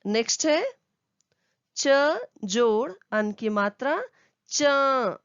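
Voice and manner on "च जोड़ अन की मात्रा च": च said as a nasal चँ; slow teacher spelling it out, then the nasal चँ; nasal sound demo. Shown as a demonstration. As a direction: let च ring through the nose. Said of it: "completely नाक से".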